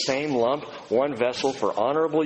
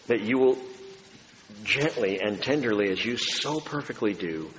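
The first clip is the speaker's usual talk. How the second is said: closing prayer; 3 semitones lower than usual. Real, not acted.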